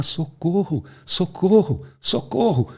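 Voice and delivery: mock cry for help. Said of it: "A Chapeuzinho começou a gritar". (grito de socorro fingido, agudo)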